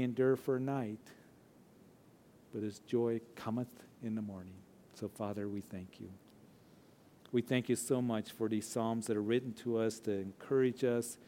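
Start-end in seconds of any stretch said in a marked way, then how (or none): 4.9-11.2 closing prayer. Real, not acted.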